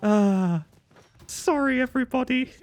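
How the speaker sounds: high, giddy sorry to the chat; bubbly after a laugh; giddy apology. Real, not acted. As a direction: apologise while still giddy. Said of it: "I'm having too much fun again".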